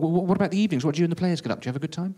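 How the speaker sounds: mildly frantic, rising questions; a touch desperate. Acted. Reporter begs press officer for blog material, slightly frantic. Desperately grasping for any story.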